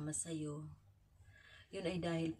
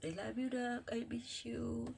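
tearful affection; 6 semitones higher than usual. Real, not acted. Mother's loving message to child.

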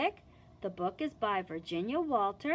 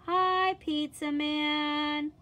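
cheery greeting; 5 semitones higher, 4 dB louder, slower than usual. Acted. Greeting at the door.

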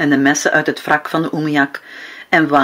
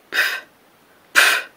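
narwhal breath puffs. A narrator's reading. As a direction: blow out like a whale surfacing. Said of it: "klonk zijn ademhaling".

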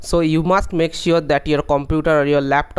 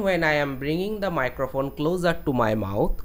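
softer, far from the microphone; mic held away; 6 dB quieter than usual. Shown as a demonstration. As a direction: speak with the mic away from your mouth. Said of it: "when I am bringing it away from my mouth".

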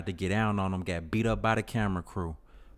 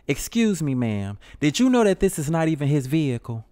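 higher, louder gossipy host; hammed-up TV host; 7 semitones higher, 5 dB louder than usual. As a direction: spill the tea like a reality host. Host exposing him.

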